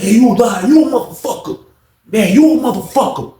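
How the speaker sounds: high, insistent mock accusation; acted angry insult. Inmate calling the officer a liar, angry. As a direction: throw it back at her as the inmate.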